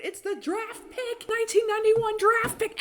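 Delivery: hammed-up sportscaster call; mock draft announcer.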